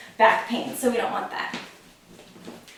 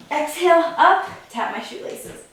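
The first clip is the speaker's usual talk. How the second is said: higher, punchy coaching cue; energetic coaching cue; 5 semitones higher than usual. Shown as a demonstration. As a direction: call out the rep like a coach. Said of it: "coaching the sit-up reps".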